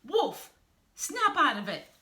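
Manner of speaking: loud, high impatient shout; sharp scolding. A narrator's reading. Snake shouts at a dazed Wolf, impatient. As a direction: shout to jolt someone back to attention.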